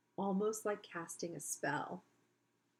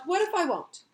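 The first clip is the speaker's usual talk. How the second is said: loud defiance; 10 semitones higher, 9 dB louder than usual. Acted. Spider's defiant reply, loud.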